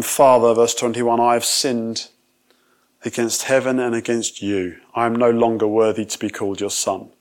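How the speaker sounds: a son crying out his guilt, projected; loud confession. Acted. Son confessing loudly to his father, ashamed. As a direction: raise the voice on "Father" and plead.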